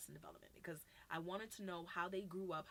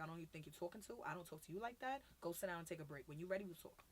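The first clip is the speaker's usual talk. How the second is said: calm, even correction; just talking, not yelling; 3 dB quieter than usual. Retold or imitated. Youth worker answering a yelling child, calmly talking. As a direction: keep it measured and matter-of-fact. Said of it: "I was just talking".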